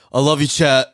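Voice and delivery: flat monotone delivery. Retold or imitated. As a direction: say it dead flat, no inflection. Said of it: "Like, so monotone".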